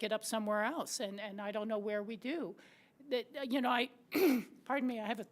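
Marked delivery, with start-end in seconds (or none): 3.1-5.3 hoarse, clearing throat; husky voice, throat catching; frog in throat. Real, not acted. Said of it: "I have a frog in my throat today".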